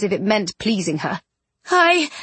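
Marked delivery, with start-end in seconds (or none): 1.7-2.1 higher, halting start; faltering female voice; weak revived woman. A narrator's reading. Bronte coming back to life, weak and halting. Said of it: "she coughed a little".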